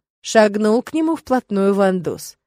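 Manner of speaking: ordinary delivery, nothing marked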